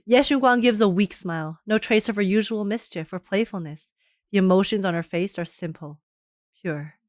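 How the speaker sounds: soft, hushed story reading; story narration. Acted. Streamer reading the game's story text, soft narration. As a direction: read it gently, like a sad tale.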